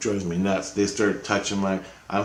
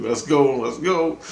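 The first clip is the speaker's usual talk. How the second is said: raised, rising rallying call; eager urging; 5 semitones higher, slower than usual. Retold or imitated. Psyched up to fight Christ, eager urging. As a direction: urge it twice, climbing in pitch.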